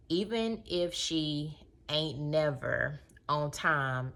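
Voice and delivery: measured, deliberate read-aloud. Acted. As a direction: read a passage out, stressing key words. Reads a book passage aloud.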